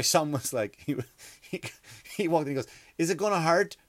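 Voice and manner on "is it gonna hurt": put-on higher, rising worried kid's question; nearly crying. Son to nurse before a blood test, mock near-tearful. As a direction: mimic a small boy close to tears. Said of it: "Little fella crying nearly".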